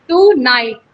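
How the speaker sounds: "टू नाइट" as two separate syllables; two distinct beats on "टू नाइट"; split into syllables. Shown as a demonstration. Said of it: "टू first syllable".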